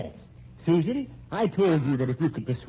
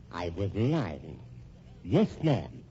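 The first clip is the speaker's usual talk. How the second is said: gloating confession; much slower than usual. Acted. Husband gloats about his lies.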